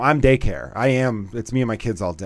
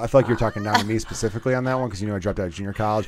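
laughing; 4 semitones lower than usual. Real, not acted. Mock offense while laughing.

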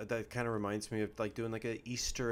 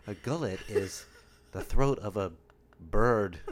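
mock sink answer; 7 dB louder, slower than usual.

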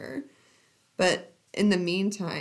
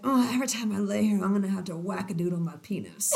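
mock lover; much faster than usual. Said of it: "he's like".

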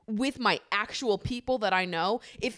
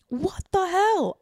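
much higher, slow, stretched "What the hell?"; drawn-out disbelief; 11 semitones higher, 4 dB louder, slower than usual. Real, not acted. Stuck scrolling hateful videos, slow high exasperated cry.

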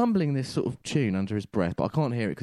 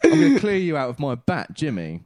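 threat; 4 semitones higher, 5 dB louder than usual. Retold or imitated. Threatening the rider.

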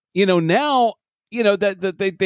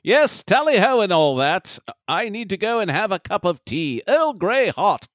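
put-on British accent; 2 semitones higher than usual. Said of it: "some British douchebag".

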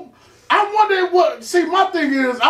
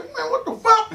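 startled yell; 12 semitones higher, 3 dB quieter than usual. Retold or imitated. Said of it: "I was like".

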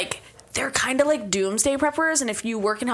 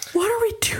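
whisper; 10 semitones higher, faster than usual. Retold or imitated. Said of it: "I'm like".

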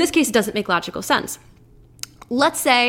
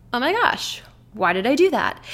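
higher, curious wondering; an outsider gently wondering why; inquisitive self-talk; 3 semitones higher than usual. Shown as a demonstration. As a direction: puzzle over it without blame. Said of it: "almost inquisitive about it".

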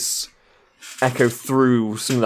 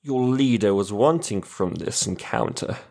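sleazy villain voice. Acted. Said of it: "Yeah, more sleazy".

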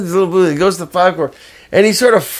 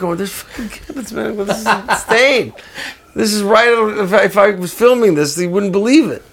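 acted-out astonishment, high-pitched; stunned fan marveling, voice lifted high; amazed; 9 semitones higher than usual. Bandleader marveling at his idol's welcome, amazed.

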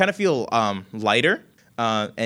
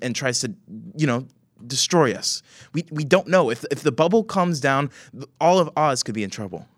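a bit higher, firm and worried; young woman; 5 semitones higher than usual. Acted. Young woman warning grandmother about the barrier, lightly voiced. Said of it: "the young woman goes".

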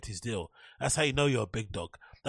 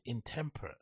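quiet puzzled repeats; 6 dB quieter than usual. Real, not acted. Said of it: "this person's using some mad word".

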